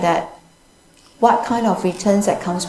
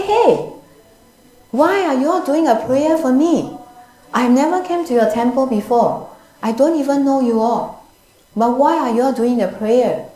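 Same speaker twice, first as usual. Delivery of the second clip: higher-pitched startled protest, retold; puzzled, higher-voiced "why me?" questioning; shocked; 3 semitones higher than usual. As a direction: act out a baffled householder's shocked challenge. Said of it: "He was, got shocked".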